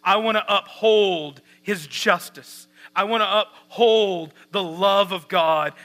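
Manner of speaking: emphatic pulpit delivery, hitting key words; driving, insistent sermon voice; forceful preaching. Real, not acted. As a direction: preach it with rising conviction.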